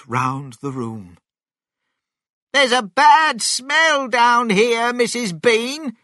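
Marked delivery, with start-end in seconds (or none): 2.5-6.0 shouted. A narrator's reading. Mabel shouts upstairs to Missus Bean, loud. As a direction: call it up to the house, full voice. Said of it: "she shouted".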